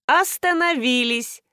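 slow, commanding stop; a touch of a host's command; mild command. A narrator's reading. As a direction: order everyone to halt. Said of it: "скомандовала Марго".

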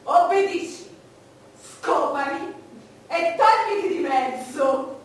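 loud commanding orders. Acted. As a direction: bark out loud orders to a lover. Acts out orders to a lover. (ordini secchi ad alta voce)

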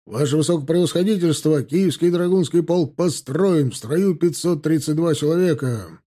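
crisp parade-ground address; military report. A narrator's reading. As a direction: report to the general before the ranks. Officer reports to general on parade.

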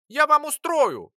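high, loud little-creature squeak; squeaking threat. A narrator's reading. Lora threatening the boy and alchemist, angry squeak. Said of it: "продолжала пищать Лора".

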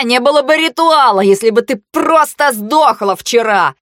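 high, loud hysterical ranting; frantic shouting. Acted. Haley screams madly at Blau, high and loud. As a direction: rant at her like a cornered madman.

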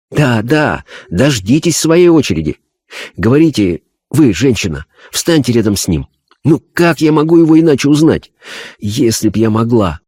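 medium talking to unseen spirits; a medium sorting out waiting spirits; seance medium. Acted. (голос медиума на сеансе)

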